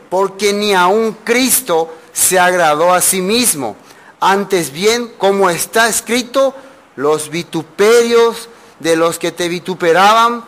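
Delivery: slow, solemn reading of the verse; scripture reading. Acted. Preacher reads verse three about Christ, slow solemn scripture reading. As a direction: read each phrase slowly with weight.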